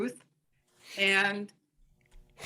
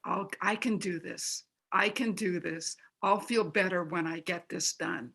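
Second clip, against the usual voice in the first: calm self-talk; 3 dB quieter than usual. Shown as a demonstration. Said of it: "that means going".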